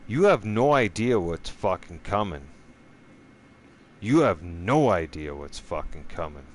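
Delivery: loud menacing warning. Real, not acted. Warning viewers what is coming, loud menace. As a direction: threaten them, loud and heavy.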